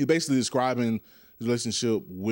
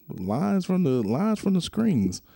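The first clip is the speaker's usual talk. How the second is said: correcting the name; 7 semitones higher, slower than usual. Shown as a demonstration. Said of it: "I said it all wrong".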